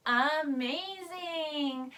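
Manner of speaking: slow, stretched cheer; drawn-out praise. Real, not acted. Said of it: "praising the kids".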